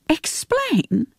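breathy disbelieving echo; mother echoing her son's word in disbelief; incredulous whisper. Acted.

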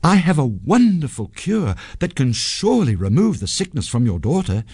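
lightly acted fake healer pitching a cure; pretend wise man. A narrator's reading. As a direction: make a grand promise to a king. Sanjay poses as healer to king.

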